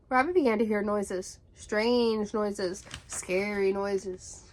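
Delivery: hushed build, slowing on the last words; suspenseful storytelling. A narrator's reading. Narrating lost Rabbit hearing noises, ominous.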